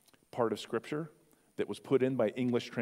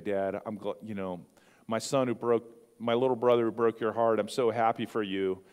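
gushing son; 5 dB louder than usual. Pretend. Hypothetical loving son.

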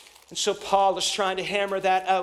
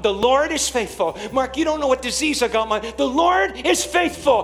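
loud, raised rebuttals to every doubt; forceful preaching; 6 semitones higher, 6 dB louder than usual. Real, not acted. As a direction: answer each objection with mounting force.

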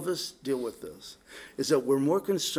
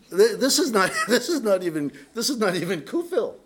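chuckling through the words, a bit louder; laughing; 4 semitones higher, 4 dB louder, faster than usual. Real, not acted. Pastor laughing to his congregation about his town. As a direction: laugh as you get the line out.

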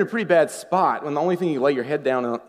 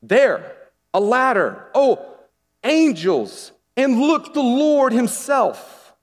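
rising awe, higher and louder, slowing on the Lord himself; emphatic wonder; 9 semitones higher, 5 dB louder, slower than usual. Shown as a demonstration. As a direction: read it like a breathless discovery. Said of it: "meant to be read like this".

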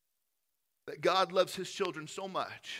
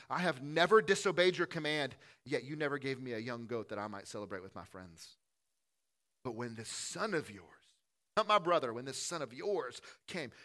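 put-on resentful older brother; 4 dB louder than usual. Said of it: "he answered his father".

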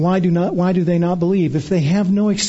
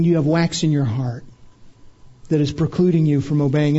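pointed heart question; 4 semitones lower, faster than usual. Shown as a demonstration. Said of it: "She's asking".

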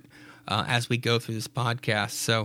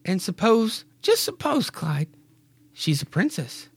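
lightly voiced wife, higher on "just suppose"; Mary's voice; 7 semitones higher than usual. Mary teasing Clyde that the baby may be a girl, lightly voiced. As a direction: tease your husband playfully. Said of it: "Mary, says".

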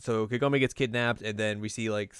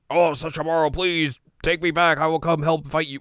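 pleading supplicant; 6 semitones higher, 6 dB louder than usual. Retold or imitated. Voicing begging Ryokan.

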